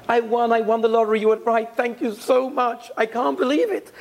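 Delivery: bubbling over with joy at winning; ecstatic. Retold or imitated. Neighbor tells her friend she won, overjoyed. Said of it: "is ecstatic".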